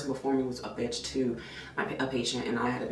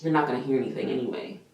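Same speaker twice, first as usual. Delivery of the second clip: quick, curt brush-off from the tech; dismissive retort; 2 semitones lower, faster than usual. Retold or imitated. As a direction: toss it off as if he's bothering her. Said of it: "She was like".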